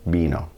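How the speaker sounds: "vino" with v softened to b; Spanish b-like V. Shown as a demonstration. Teacher corrects to vino, Spanish b-like V. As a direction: say "vino" as BEE-no. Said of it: "Not vino".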